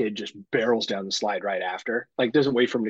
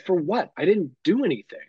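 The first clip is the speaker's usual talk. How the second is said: higher, mock-innocent protest; retold protest, pitched up; baffled denial; 5 semitones higher than usual. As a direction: act out an indignant "who, me?". Acts out friend's baffled denial.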